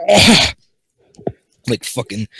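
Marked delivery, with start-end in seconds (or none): 0.1-0.5 loud groan. Real, not acted. Reader exclaims after voicing pirate.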